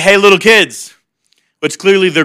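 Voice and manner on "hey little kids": teasing. Retold or imitated. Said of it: "he kinda messes with them".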